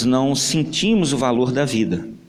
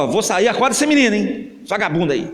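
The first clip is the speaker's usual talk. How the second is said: louder, quicker order on the way out; gruff father order; 5 semitones higher, 3 dB louder than usual. Acted. Father tells mother to wake the lazy boy, gruff and loud. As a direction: bark it over your shoulder.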